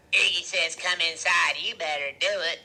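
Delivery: loud woman character's command; Loretta ordering. A narrator's reading. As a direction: order them in, loudly. Loretta orders them inside.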